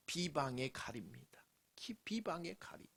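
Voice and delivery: low hushed whisper. Real, not acted. Preacher whispering the name of the sword. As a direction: whisper it like a secret.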